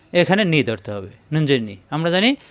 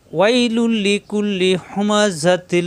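slow chanted tilawat with long drawn vowels; Quran recitation; much slower than usual. Shown as a demonstration. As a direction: recite slowly, stretching each vowel. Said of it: "তখন কীভাবে পড়ব?".

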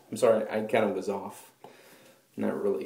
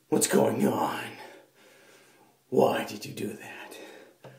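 Snake impression. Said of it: "That was Snake if he was part demon".

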